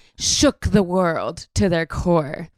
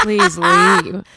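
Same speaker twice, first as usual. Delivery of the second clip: laughing; 10 semitones higher, 5 dB louder than usual. Acted. Telling drunk girl to leave.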